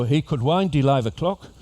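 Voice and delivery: botched Liverpool accent sounding Jamaican; Scouse gone Jamaican. Shown as a demonstration. Showing passengers a tall-person phrase in Jamaican-tinged Scouse accent. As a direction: attempt Scouse, drift towards Jamaican. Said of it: "Sounded more Jamaican than Liverpool".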